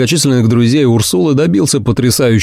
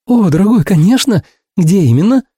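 high, quick agreeing; much higher, delighted; eager Ursula; 8 semitones higher than usual. A narrator's reading. Ursula agreeing to dinner, high and eager.

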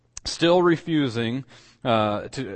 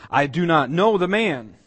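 higher, louder emphatic denial; sworn denial; 5 semitones higher, 5 dB louder than usual. Acted. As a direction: deny it forcefully, as if on oath. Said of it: "he denied with an oath".

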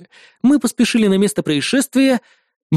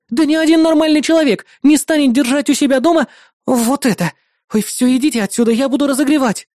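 outraged neighbour; 6 semitones higher than usual. Acted. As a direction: throw the insult back. Neighbour chasing them out.

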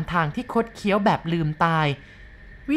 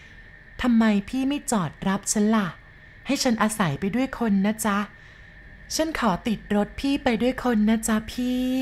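a lightly voiced ghost girl asking for a ride; chilling ghost voice; 4 semitones higher than usual. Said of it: "เสียงแหลมเล็กเยือกเย็น".

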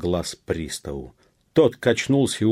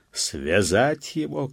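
high, drawn-out command; shouted order; 6 semitones higher, slower than usual. A narrator's reading. Police officer to the peasants, shouting. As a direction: order it in a raised voice. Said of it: "крикнул он мужикам".

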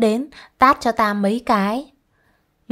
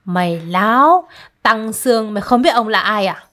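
scolding; 3 dB louder than usual. Acted. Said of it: "mà mắng rằng".

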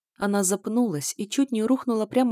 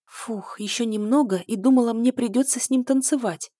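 relieved; 4 semitones higher than usual. Acted. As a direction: sigh of relief, then rising. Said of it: "с облегчением произнесла принцесса". (с облегчением)

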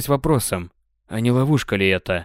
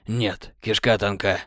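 through gritted teeth; 2 semitones lower, 4 dB quieter, slower than usual. Acted. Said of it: "сквозь зубы рявкнул Сэм".

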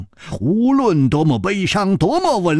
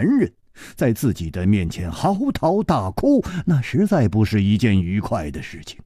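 murmuring. Acted. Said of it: "喃喃地说".

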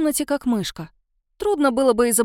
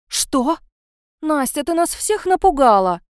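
louder, higher, put-on alarm; raised voice; 4 semitones higher, 4 dB louder than usual. A narrator's reading. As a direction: fake worry for show. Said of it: "повысила голос тётка". (нарочито встревоженно)

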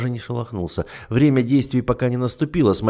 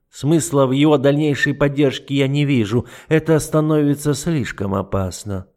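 cold, amused condescension; a lightly voiced smug duke; condescending; 3 semitones higher, 4 dB louder than usual. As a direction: explain it down to her. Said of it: "усмехнулся несколько снисходительно".

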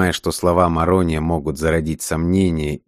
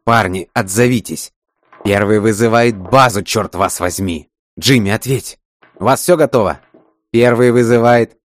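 louder, higher desperate radio shouting; 4 semitones higher, 5 dB louder than usual. Acted. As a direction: yell for an answer. (отчаянный крик в рацию)

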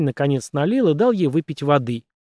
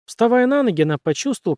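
plain reading voice

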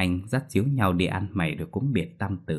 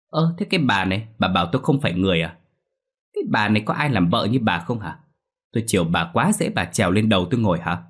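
indignant husband; faster than usual. Acted. Husband quarrelling with wife.

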